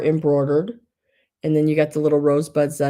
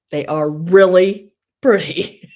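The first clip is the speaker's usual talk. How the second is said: savoring gush; 7 dB louder, slower than usual. Real, not acted. Admiring the hankies.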